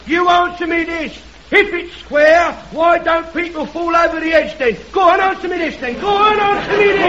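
shouted retort, pushing back hard; heckler shouting. Acted. Heckler shouts his question back at the soapbox speaker. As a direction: yell your question back at him.

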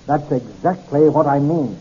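slow, restrained annoyance; a bit irritated. Acted. Narrator answering a man who irritates him, mildly irritated. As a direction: answer slowly with a touch of impatience. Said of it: "becoming a bit irritated with this man".

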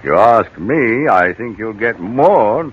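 lightly voiced West Country yokel; a friendly menace behind the country charm; country gardener chatting to the old lady; rustic gardener.

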